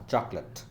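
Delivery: "chocolate" said choklut, no late at the end; correct chocolate. Shown as a demonstration. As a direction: say "chocolate" with a short lut ending. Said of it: "चॉकलेट में लेट नहीं होता". ("chocolate" में लेट नहीं, चॉकलट)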